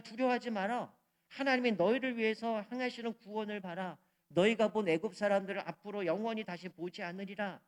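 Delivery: lightly voiced Moses, projecting firmly; Moses addressing people. Preacher voices Moses telling the Israelites not to fear, proclaiming. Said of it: "모세가 그냥".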